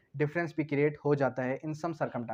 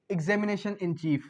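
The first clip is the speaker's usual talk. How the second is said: slow key term; much slower than usual. Shown as a demonstration. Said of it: "teacher stresses the key term".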